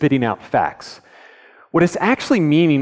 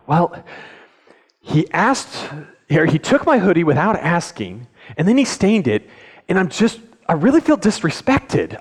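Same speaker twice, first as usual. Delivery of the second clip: put-on a touch higher kid voice, calm and sincere; calmer honest kid; 4 semitones higher than usual. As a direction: son explaining his hurt without anger. Kid now telling the truth calmly.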